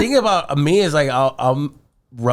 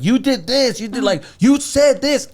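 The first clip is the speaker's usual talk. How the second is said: mocking higher imitation of his girlfriend; mimicking girlfriend; 8 semitones higher than usual. Boyfriend mimicking his girlfriend mid-argument, mocking higher voice. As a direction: parrot her words back higher to tease. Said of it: "try to sound like her".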